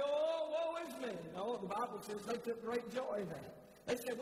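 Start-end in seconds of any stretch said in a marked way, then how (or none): 0.0-1.1 slow, hammed-up self-pitying whine; a preacher mocking whiners with a slow, hammed-up moan. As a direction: drag it out like a martyr. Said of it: "whine about it and say".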